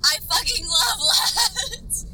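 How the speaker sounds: loud, slow, drawn-out cry of love; yelling with delight; excited shout. Real, not acted. Excited outburst about a neighborhood.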